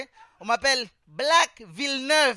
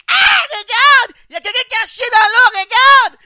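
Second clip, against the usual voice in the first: panicked shout; 11 semitones higher, 16 dB louder than usual. Retold or imitated. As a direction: yell to the whole pool in fake panic. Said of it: "je crie". (cri d'alarme aigu et très fort)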